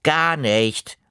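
put-on stubborn kid shouting back; sulky child yelling no; defiant yell. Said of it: "Da hab ich geschrien".

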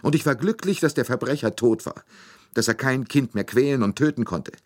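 high, loud, tearful lament; a nursemaid crying out her grief; weeping nurse. A narrator's reading. Nursemaid tells Poirot about the child, tearful and high. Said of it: "noch immer weinend".

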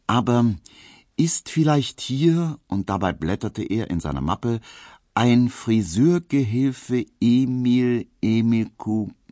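a polite caller drawing out the question, leafing through papers; friendly official. A narrator's reading. Official asks for Emil.

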